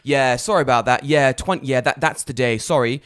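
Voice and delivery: loud, breezy fake apology; mock apology. Garbage company fobbing off the customer, loud mock apology. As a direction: apologise loudly without meaning it.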